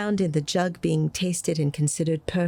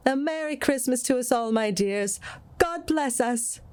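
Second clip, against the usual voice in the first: raised, cheerful father's toast; hearty toast; 7 semitones higher than usual. A narrator's reading. Bob toasting his family, higher and cheerful. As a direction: lift the glass and bless them all. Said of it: "Then Bob proposed".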